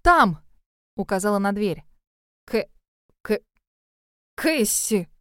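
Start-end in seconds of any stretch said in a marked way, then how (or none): 0.0-0.4 urgent exclaim. A narrator's reading. Points at the door. 2.5-5.1 clucking stammer. A narrator's reading. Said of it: "прокудахтал Кайл".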